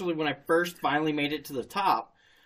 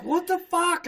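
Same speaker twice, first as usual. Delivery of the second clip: much higher, startled; high surprised buddy; 12 semitones higher than usual. Retold or imitated. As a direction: sound shocked and baffled. Buddy voiced.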